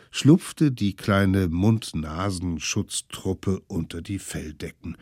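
usual speaking voice

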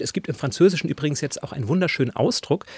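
words round a mouthful of cake; mouth full. Real, not acted. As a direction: still chewing while talking. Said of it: "ich spreche mit vollem Mund".

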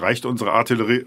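normal talking voice

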